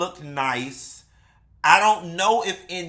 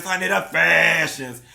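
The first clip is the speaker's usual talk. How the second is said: sing-song catchphrase; 3 dB louder than usual. Acted. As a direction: let the audience chant along. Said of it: "How many of y'all said that with me?".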